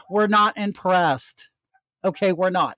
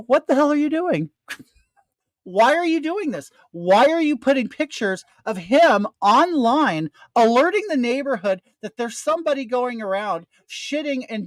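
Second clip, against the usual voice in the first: retold confrontation; 3 semitones higher than usual. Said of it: "and we go".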